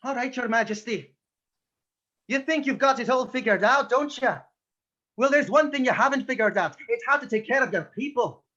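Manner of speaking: put-on lightly done Irish accent, defiant Robin Hood; a hint of Irish, speaking up to the king. Robin Hood defying the king in a light Irish accent. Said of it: "with an Irish accent".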